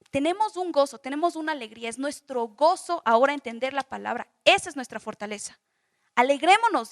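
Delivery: rally a tearful crowd to rejoice; arenga de gozo. Acted. Acted rallying of weeping people. (arenga enfática y en voz alta)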